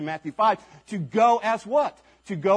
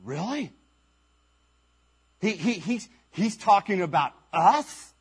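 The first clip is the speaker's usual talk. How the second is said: a hint of stunned disbelief, half to themselves; disciples mumbling; 2 semitones higher than usual. Disciples whispering to each other in disbelief. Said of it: "the disciples mumbling to each other".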